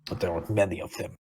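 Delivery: lightly voiced nervous character, halting; timid creature sidekick. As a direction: admit fear in a light character voice. Game master voices nervous creature.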